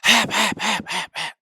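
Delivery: high, loud clucking "Hap, hap" like a calling hen; hen's hail call. Retold or imitated. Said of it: "when she goes".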